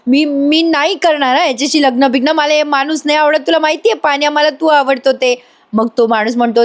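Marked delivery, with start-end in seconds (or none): 0.1-5.3 higher-pitched, mildly miffed protest; mock indignant babble; imitated annoyed ranting. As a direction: protest like a peeved girl, lightly acted. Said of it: "असं काहीतरी बडबडते".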